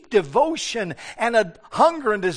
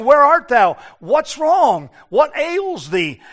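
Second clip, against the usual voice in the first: calling out; 4 semitones higher, 5 dB louder, slower than usual. Retold or imitated. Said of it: "it's God that's saying".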